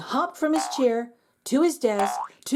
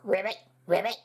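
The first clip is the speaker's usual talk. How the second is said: frog croak; 3 semitones lower, 3 dB quieter, faster than usual. Acted. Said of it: "he said".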